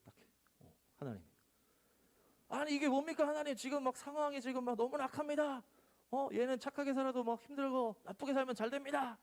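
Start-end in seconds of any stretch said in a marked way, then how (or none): 2.5-9.2 high, exasperated protest; protesting prophet. Acted. Habakkuk protesting to God, high and exasperated. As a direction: throw the question up at God.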